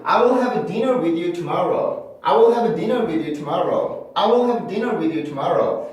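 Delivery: "tomorrow" with a clear initial T; careful "tomorrow", T fully sounded; full T in tomorrow. Shown as a demonstration. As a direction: pronounce the T of "tomorrow" as a true T, not a flap. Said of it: "이렇게 발음할 확률이 커요".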